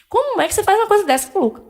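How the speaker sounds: high, fast, accusing outburst; retold angry scolding. Sister scolding her brother over the missing phone, angry and fast. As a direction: confront him hard and fast, raising the pitch. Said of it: "E falei com raiva".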